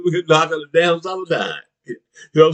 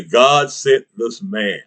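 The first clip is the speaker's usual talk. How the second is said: mock preacher; 6 semitones lower, much slower than usual.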